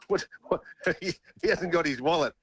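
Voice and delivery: breaking into laughter mid-sentence; giggling as the memory hits; laughing through it. Real, not acted. Laughing as he recalls his mate's missing wallet. Laughing while telling toll story.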